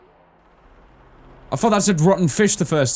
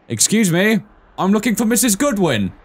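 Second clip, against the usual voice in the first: raised, courteous caller at the door; polite bailiff; 6 semitones higher than usual. Acted. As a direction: knock and ask politely like an officer. Voicing the game's bailiff.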